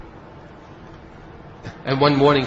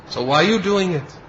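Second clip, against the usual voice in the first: mock sharp question; 6 semitones higher than usual. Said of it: "chastising him".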